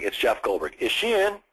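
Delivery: firm name, then lifted direct question; forward and firm. Shown as a demonstration. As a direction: take control of the call. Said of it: "gonna be forward and firm".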